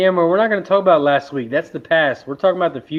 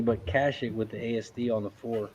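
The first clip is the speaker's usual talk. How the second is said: softer, lower, almost under the breath; very softly; 5 semitones lower, 11 dB quieter than usual. Real, not acted. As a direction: say it quietly so nobody hears. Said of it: "I'll say very softly".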